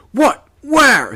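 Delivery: high, loud startled questions; calling out. A narrator's reading. Plummer answering the warning excitedly, calling out. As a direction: cry out each word in alarm. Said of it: "he called".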